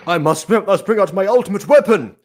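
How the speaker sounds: mock grand villain.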